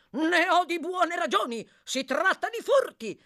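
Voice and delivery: high, loud indignation; angry accusation. Acted. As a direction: accuse him hotly, collar in hand. Doctor seizes and accuses hunchback. (accusa furiosa)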